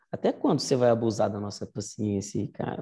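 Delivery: a touch of mock fear, hesitant and timid. Shown as a demonstration. Teacher showing the class a timid Cicero, mildly fearful. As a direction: pretend to be scared of Catilina while asking. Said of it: "tô morrendo de medo".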